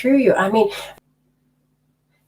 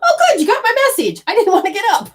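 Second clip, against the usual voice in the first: husband's reply; 12 semitones higher, 4 dB louder, faster than usual. Retold or imitated. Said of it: "He's like".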